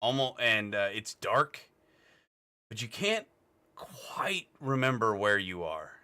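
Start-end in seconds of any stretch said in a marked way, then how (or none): 2.7-5.9 slow, hushed narration; fading memory. A narrator's reading. Game master describing a hazy childhood memory, slow and hushed. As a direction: draw it out softly, trailing into haze.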